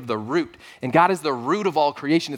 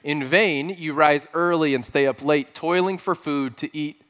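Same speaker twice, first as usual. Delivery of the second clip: scripture reading. Acted. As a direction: read the verses with weight, slowing toward the end. Reads Psalm 127 aloud.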